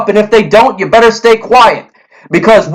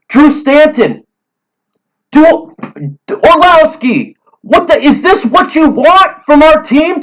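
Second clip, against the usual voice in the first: fired-up fan rant, pitch pushed higher; heated rant; 3 semitones higher than usual. Real, not acted. Lions fan ranting at critics, heated and higher. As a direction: vent hard at the Stafford haters. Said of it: "I'm sorry I went on that rant".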